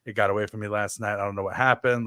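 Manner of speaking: low-pitched, sheepish retold apology; mortified apology. Guest apologizing to hosts the morning after, mortified. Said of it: "I was mortified".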